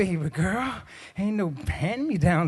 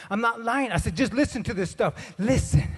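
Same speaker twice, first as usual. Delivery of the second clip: higher-pitched comic pleading; mock-urgent protest; insistent husband; 4 semitones higher than usual. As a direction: insist that you mean it. Acted insistent husband arguing.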